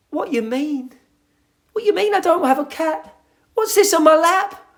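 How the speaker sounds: high, loud indignant put-on voice; mock indignation. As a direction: protest like an outraged cartoon character. Acted indignant character continues.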